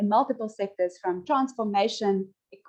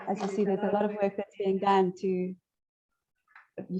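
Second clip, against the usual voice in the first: echo. Real, not acted. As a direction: voice echoing back in a big hall. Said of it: "sorry, I'm, I'm echoing there".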